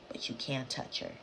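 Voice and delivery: very soft, low near-whisper; hushed warning. Retold or imitated. Neighbour warns about the beautiful woman, hushed.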